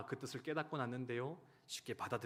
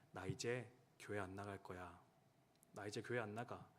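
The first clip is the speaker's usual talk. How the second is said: softer, lower, wounded refusal; hurt and quiet; 3 semitones lower, 6 dB quieter than usual. Retold or imitated. Husband on the phone telling wife he quits church, hurt and quiet. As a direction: say it like someone deeply hurt.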